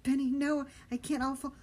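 loud, high frightened protest; boy refusing Benny in terror; panicked refusal. Acted. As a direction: cry out in fear.

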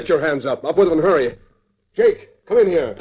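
villain holding a man at gunpoint; barked orders. Acted. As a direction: snap the commands like a threat. Villain draws gun, barks orders.

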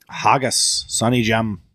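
attempted Scottish accent. Shown as a demonstration. Struggling to show an impression, light Scottish accent.

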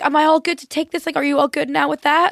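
waiter's eager table check, lightly mimicked; imitated attentive waiter. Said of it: "come over and be like".

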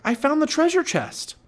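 high, loud, excited exclamation; Jack crying out. A narrator's reading. Boy telling the girl of his treasure, crying out excitedly. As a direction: crow over the find. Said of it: "cried Jack".

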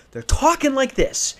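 high, strained mock argument; imitated heated arguing. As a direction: raise the pitch as if squabbling, without full volume. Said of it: "they're yelling at each other".

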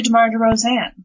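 DeRozan with emphasis on a full ZAN; player's own pronunciation. Shown as a demonstration. Co-host correcting the name, DeRozan ending in full ZAN. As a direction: finish DeRozan on a clear, weighted ZAN. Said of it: "it's all where you put the emphasis".

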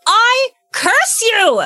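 high, slow dramatic curse; laying a curse. Acted. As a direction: shout the curse dramatically, drawn out. Character hexes the beholder.

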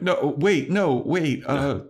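the professor's call done as a mock panic; mock panicked Walsh. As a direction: imitate the professor calling him back. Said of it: "being like".

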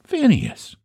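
high-pitched, solemn country address. A narrator's reading. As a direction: pronounce the name with grave weight. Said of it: "said Eph solemnly".

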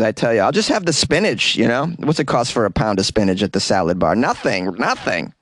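lightly voiced eager stoner; mock stoner. Host voicing a stoner eager for the spinach. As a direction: play a stoner hunting cheap highs. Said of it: "'cause they're out there looking for it".

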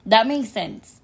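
slightly hoarse from shouting; raspy voice. Real, not acted. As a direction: speak with a raspy, worn throat. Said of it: "if my voice is a little bit raspy".

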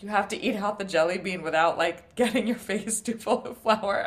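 exaggerated Southern accent, slowing on the end; doing the host's odd Southern twang; mock Southern host giving game rules; weird Southern accent. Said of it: "weird Southern accent".

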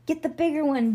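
high, loud call; yelled order. A narrator's reading. Bean starting the chase, yelled order. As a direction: shout it to rally the hunters. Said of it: "Bean yelled".

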